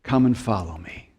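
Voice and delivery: low, gentle invitation; Jesus. Acted. Preacher voices the call to follow, gentle invitation. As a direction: invite them softly, letting the pitch settle. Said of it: "Jesus say to us".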